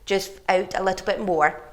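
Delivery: talking with tongue held out; holding tongue with fingers. Real, not acted. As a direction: speak while pulling your tongue. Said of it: "hold your tongue and bring it out".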